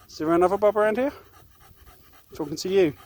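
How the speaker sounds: fast sarcastic scolding; sarcastic telling-off. Real, not acted. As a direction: needle him for ignoring you. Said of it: "when I'm telling you off".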